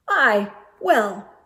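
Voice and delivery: a lightly voiced clerk lost for words; flustered clerk. Clerk stumped by the girl's question, flustered and stammering. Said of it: "said the clerk".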